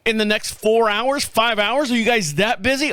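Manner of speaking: incredulous scolding of the call-center guy; pissed off. Retold or imitated. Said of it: "Oh, I was pissed".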